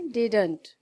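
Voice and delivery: didn't said clipped as one word; contracted didn't. Shown as a demonstration. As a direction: say didn't in one quick beat. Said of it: "इसको pronounce करते हैं".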